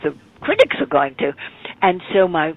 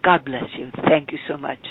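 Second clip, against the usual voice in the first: put-on English accent. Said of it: "in his best English accent".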